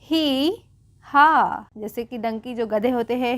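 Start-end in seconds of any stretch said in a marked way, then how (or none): 0.0-1.7 two separate drawn-out syllables, hee then haw; lightly imitated donkey hee-haw; donkey bray imitation. Shown as a demonstration. Teacher reading out how donkeys talk, mildly imitated bray. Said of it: "गधे कैसे बोलते हैं".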